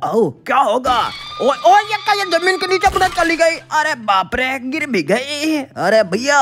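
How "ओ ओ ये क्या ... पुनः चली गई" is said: shocked surprise. Real, not acted. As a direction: gasp as she drops away. Teacher sinks into the ground. (चौंककर ऊँची आवाज़ में चीख)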